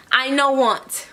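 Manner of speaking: slow, laughing broken English. Shown as a demonstration. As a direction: chuckle through it slowly. Jokes about wrong word order.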